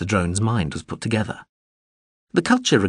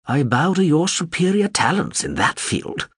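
snapping back; 9 semitones higher than usual. A narrator's reading. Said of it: "Chambliss snapped back".

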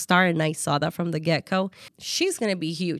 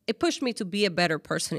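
normal talking voice

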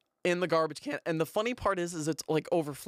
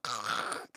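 low, soft mouth-made crunch; imitated bite noise; 6 semitones lower, 6 dB quieter than usual. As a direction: mimic biting into charred crust. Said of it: "first bite is literally like".

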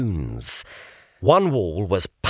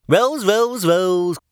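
a whiny, higher, louder groan of a pig; complaining; 9 semitones higher, 4 dB louder than usual. A narrator's reading. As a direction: moan the word rules over and over. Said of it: "complained the pig".

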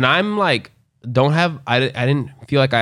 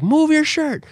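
high-pitched motherly order; mock worried mom; slower than usual. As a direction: bark it like an alarmed mother.

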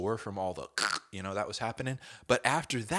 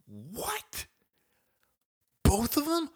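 shocked disbelief; 14 semitones higher, slower than usual. Retold or imitated. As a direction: gasp it in disbelief. Shocked by news.

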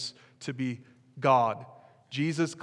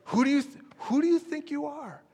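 much higher, offended sneer; indignant crowd; 12 semitones higher than usual. Retold or imitated. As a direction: play the offended crowd, pitched way up. Voicing crowd's indignant challenge.

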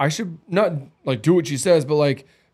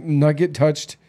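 ordinary talk

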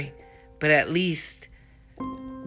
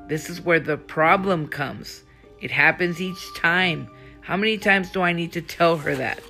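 louder, exasperated outburst; acted anger; 3 semitones higher, 5 dB louder than usual. Anna rants about Sadie defending Dante, louder. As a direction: push it out like she's had enough.

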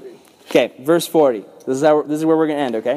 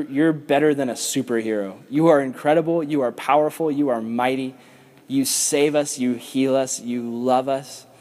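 closing prayer. Acted. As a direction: pray sincerely over the group.

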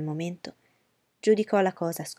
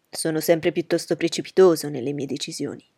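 put-on louder, eager young gentleman; Bingley's voice; 7 dB louder than usual. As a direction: reassure her warmly and firmly.

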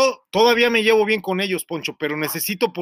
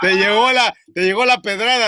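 louder, laughing through the words; laughing tease; 3 semitones higher, 5 dB louder than usual. Real, not acted. Teasing Armando about the jab, laughing loudly. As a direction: tease him while still cracking up.

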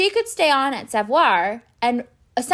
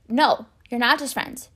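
ordinary delivery

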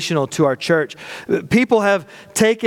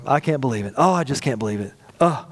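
mock dismay; 5 semitones lower, 3 dB quieter than usual. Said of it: "you've done that before".

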